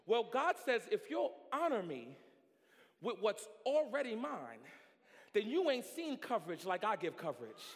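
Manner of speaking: loud, high, rising preacher's cadence; full-force preaching. Acted. Preacher calling to his congregation, full force.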